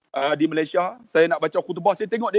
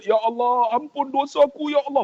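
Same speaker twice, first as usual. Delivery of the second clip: imitating a tearful plea, pitched up; higher-pitched retold cry for mercy; retold tearful prayer; 5 semitones higher than usual. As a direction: plead upward as the penitent, lightly acted. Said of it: "Menangis dia".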